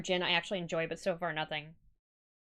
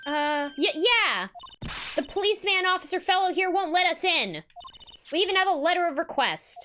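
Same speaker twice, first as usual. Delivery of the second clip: higher, eager and bright; excited kid voice; 7 semitones higher than usual. Acted. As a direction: plead it like an indignant kid. Reads excited kid line.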